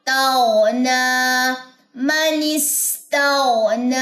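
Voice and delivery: ताओना slow with a plain unpressed t; correct pronunciation. Shown as a demonstration. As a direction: keep the t in ताओना normal. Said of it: "बिल्कुल normal रखें इसकी आवाज को". (ताओना सामान्य ता के साथ)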